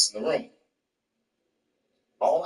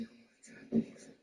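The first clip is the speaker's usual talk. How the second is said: softer, mock-tearful wife; imitated crying wife; 11 dB quieter, much faster than usual. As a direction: speak as a wife through tears. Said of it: "And she was crying".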